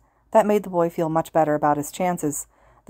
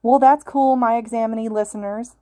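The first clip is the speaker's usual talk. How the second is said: higher, louder radio host voice; loud announcer; 5 semitones higher, 4 dB louder than usual. A narrator's reading. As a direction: hype up a silent crowd. Hero hypes silent crowd.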